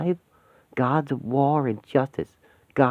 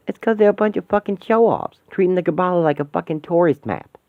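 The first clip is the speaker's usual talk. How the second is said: irritated rant; 5 semitones higher, 3 dB louder than usual. Acted. Angry rant about show-offs.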